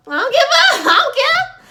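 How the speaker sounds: high, loud words breaking into a laugh; can't hold back the laugh mid-quote; laughing while voicing Jake's careless answer; laughing through it.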